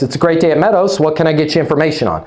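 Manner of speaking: with a smile. Shown as a demonstration. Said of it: "put a smile on your face".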